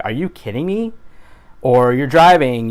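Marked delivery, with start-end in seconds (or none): 0.0-0.9 pitched up, incredulous rising question; exasperated disbelief. Retold or imitated. Vlogger acting out a daily reaction, exasperated disbelief. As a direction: react to something absurd you just saw. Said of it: "you're like".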